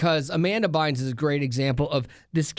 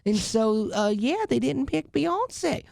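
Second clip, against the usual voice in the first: put-on light country singer accent, pitched up; higher-pitched attempt at a country singer's accent; 5 semitones higher than usual. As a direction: read it as a mild country singer impersonation. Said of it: "have her read it in her accent".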